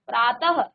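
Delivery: प्रातः closing on a light, unfinished ह; visarga as half ह. Shown as a demonstration. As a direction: end प्रातः with half an h, no full syllable. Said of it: "वो पूरा ह नहीं".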